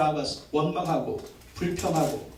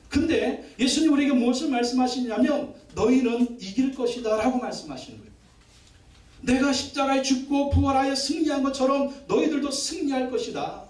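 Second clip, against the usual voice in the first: higher, rising sermon cadence; fervent preaching; 5 semitones higher than usual. Acted. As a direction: preach it with full conviction. Preaching about victory over trials.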